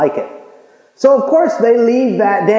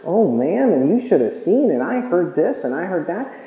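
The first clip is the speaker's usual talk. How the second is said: gossip; 2 semitones lower, 4 dB quieter than usual. Retold or imitated. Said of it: "get started in the gossip thing".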